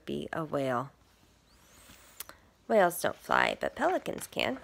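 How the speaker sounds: lively picture-book read; reading to children. Acted. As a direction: read it to little listeners. Reads picture book aloud.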